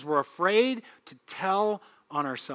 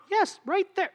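very high mock insistence; squeaky-high contradiction, playing God; insistent God; 12 semitones higher than usual. God pointing out a hidden sin, high-pitched insistence.

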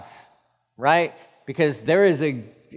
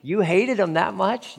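incredulous; 5 semitones higher than usual. Acted. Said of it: "They're like".

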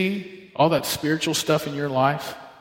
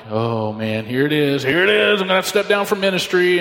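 mounting panic; 3 semitones higher than usual. Retold or imitated. Husband as his wife starts crying, retold rising panic. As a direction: build from a sinking groan to a rushed mock panic.

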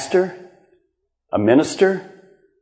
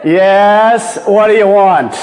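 annoyed answer; 3 dB louder, much slower than usual. Retold or imitated. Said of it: "what is your normal response".

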